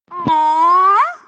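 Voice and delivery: talking around a buzzing toothbrush; while brushing teeth. Real, not acted. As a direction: speak with a toothbrush in mouth. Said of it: "eine elektrische Zahnbürste im Mund und spreche".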